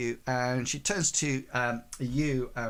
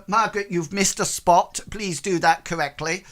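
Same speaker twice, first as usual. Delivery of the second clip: louder, higher voice of a woman in charge; raised-voice reprimand to a subordinate; acted scolding; 5 semitones higher, 4 dB louder than usual. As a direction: tell off the cleaner firmly. Woman scolds cleaner in acted scene.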